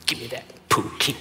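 sulky mutter. Retold or imitated. Petty reply to hurt mom.

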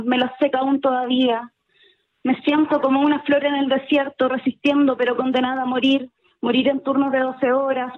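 measured spoken-word poem delivery, voice held down; slam poetry recital. Acted. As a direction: recite it like a slam poet on stage. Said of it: "Mercuria y su poema Chao Jefe".

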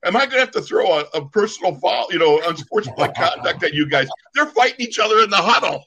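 high, loud referee warning; stern referee. Retold or imitated. Referee scolding both teams in the huddle, exasperated. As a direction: threaten the penalty like a fed-up ref. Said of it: "He goes".

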